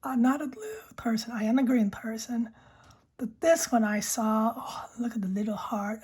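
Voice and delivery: unvoiced ASMR whisper. Real, not acted. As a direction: breathe the words close to the mic. Whispered ASMR pen chat.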